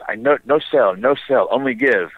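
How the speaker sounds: broken English. Retold or imitated. Bartender refusing to sell the kid beer, a light broken-English imitation. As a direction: lightly mimic a Spanish speaker's broken English. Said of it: "and in broken English".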